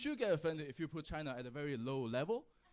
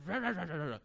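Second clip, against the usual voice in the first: slightly raised, garbled gibberish rant; mock garbled shouting; 3 semitones higher, 3 dB louder, faster than usual. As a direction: imitate an incomprehensible British shouter. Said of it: "he was speaking British English".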